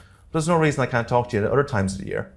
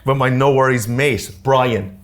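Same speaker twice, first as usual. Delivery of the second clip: mock Aussie accent; 3 semitones higher, 5 dB louder, slower than usual. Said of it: "they think I sound like Alf from Home and Away".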